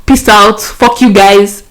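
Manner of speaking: stranded traveller panicking on the phone to her mom; panicked outburst. Retold or imitated. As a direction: spill it out in a panic. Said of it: "I was freaking out. I was panicking".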